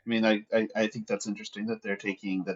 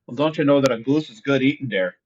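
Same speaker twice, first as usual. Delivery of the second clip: a light, folksy hint of a Minnesota accent; mock Minnesota accent. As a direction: play the Minnesota hunter, hamming it up gently. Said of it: "are we doing your Minnesota Hackett".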